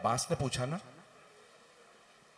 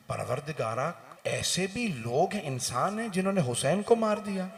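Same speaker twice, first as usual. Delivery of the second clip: pleading lament; 5 semitones higher, 3 dB louder than usual. Acted. Angels plead to God.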